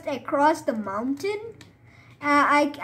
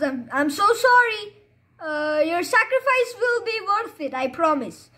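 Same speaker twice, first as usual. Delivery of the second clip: mock sorrow; 5 semitones higher than usual. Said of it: "I feel so sad".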